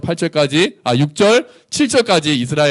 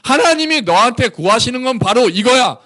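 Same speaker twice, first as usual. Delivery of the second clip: higher, forceful declaration; worked-up rebuke; 9 semitones higher than usual. Acted. Micah telling Israel what God wants, worked up. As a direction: drive it home as if fed up. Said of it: "이렇게 열받아서 하는 거예요".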